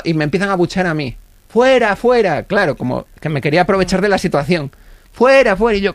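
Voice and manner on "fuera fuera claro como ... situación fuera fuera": crowd jeering. Retold or imitated. Crowd booing him.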